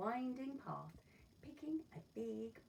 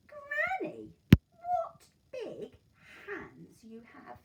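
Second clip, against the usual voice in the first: put-on wondering girl; 13 semitones higher, 14 dB louder, much slower than usual. Girl notices granny's hands.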